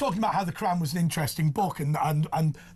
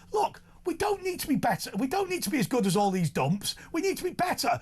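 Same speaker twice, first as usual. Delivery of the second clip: pitched up, insistent and firm; raised, insistent rebuttal; emphatic retort; 5 semitones higher than usual. Retold or imitated. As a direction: hammer the point home. Voiced rebuttal.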